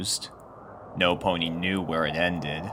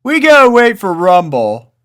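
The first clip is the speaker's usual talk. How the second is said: much higher, louder, lazy drawling colt; Snails drawling; 12 semitones higher, 13 dB louder than usual. A narrator's reading. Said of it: "drawled Snails".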